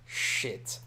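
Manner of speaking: breathy gasp then whispered shit; whispered curse. Real, not acted. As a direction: hiss out a scared curse. Fight escalating.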